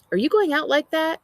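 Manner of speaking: high, loud horrified question. A narrator's reading. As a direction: make the horror obvious. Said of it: "I make my horror obvious".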